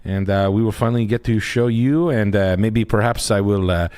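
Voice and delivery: lightly put-on French accent, halting with uh; a hint of a hesitant Frenchman riffing; understated French accent, lots of uh; French guy bit. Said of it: "your French guy bit".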